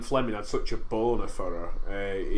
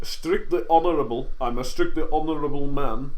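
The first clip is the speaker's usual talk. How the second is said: higher, louder parody of a film line; mock-honourable; 4 semitones higher, 4 dB louder than usual. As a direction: echo it with hammed-up earnestness. Mockingly echoes the film's line.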